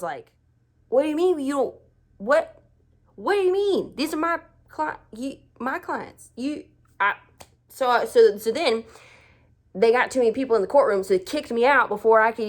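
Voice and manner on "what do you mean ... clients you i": high, flustered stammer; sputtering in disbelief, pitched up; retold confused protest. To the boss who says they don't need her, high flustered disbelief. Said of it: "I was so confused".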